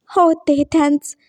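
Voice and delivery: होते for "okay", k softened to t; childlike lisp on थैंक्स. Acted. Lisping boy thanks his friend, lisped. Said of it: "तोतले को तोतला नहीं बोलेंगे".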